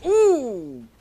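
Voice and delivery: high, loud "ooh"; a sharp, high wince out loud; loud real cry of dismay; pained "ooh". Real, not acted. Reacting to horrible driving display.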